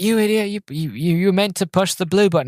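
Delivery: put-on high teasing kid voice; mocking sister. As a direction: scold him like a bossy big sister. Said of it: "He's like".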